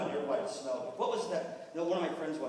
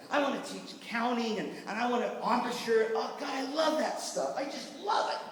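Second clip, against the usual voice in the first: gushing enthusiasm; 4 semitones higher than usual. Acted. Gushes over the fun music stuff.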